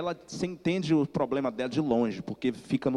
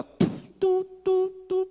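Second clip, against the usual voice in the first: imitated dial tone, much higher and louder; phone busy tone; 4 dB louder, slower than usual. Mother hangs up on her son, imitated busy tone. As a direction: beep it like a dead phone line.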